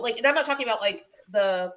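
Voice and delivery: talking with a hair in mouth; words caught around a stray hair. Real, not acted. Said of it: "sorry, I got a hair in my mouth".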